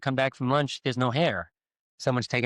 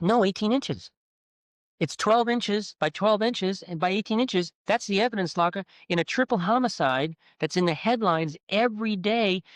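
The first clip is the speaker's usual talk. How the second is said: raised, emphatic disbelief; exasperated outburst; 5 semitones higher than usual. Retold or imitated. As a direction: hammer home the absurd size. Outraged explanation of tiny safe.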